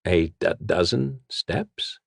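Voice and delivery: slow, stunned stammering repeat; a touch of stunned fear; numbly. Acted. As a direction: repeat it in numb shock. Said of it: "Sir Hamnet repeated numbly".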